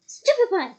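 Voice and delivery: loud, high battle roar. A narrator's reading. Twenty wizards roaring a stunning spell. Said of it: "roared twenty voices".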